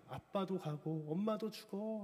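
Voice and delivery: slow, mild mock sob through the words; a touch of the girl weeping as she speaks; imitating tearful crying. Girl weeping at her dying mother's words, mild slow sob. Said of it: "하면서 막 우는 거예요".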